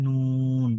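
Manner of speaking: "নুন" drawn long, tongue tip on upper palate; tongue-tip noon. Shown as a demonstration. Teacher shows where noon is made, long "নুন". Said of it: "এভাবে".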